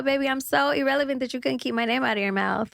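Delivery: ordinary talk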